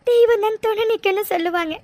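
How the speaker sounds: crying, pleading prayer; tearful prayer. Acted. Mega praying to God for her mother, crying. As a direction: beg God through tears.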